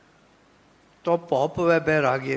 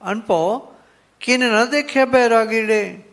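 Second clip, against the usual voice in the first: repeated verse, louder and quicker; scripture recitation; 4 semitones higher, 5 dB louder than usual. Shown as a demonstration. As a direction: recite it again with conviction. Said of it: "ਭਗਤ ਜੀ ਕਹਿੰਦੇ ਆ".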